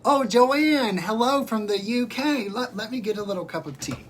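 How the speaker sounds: put-on British accent. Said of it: "to make you feel right at home".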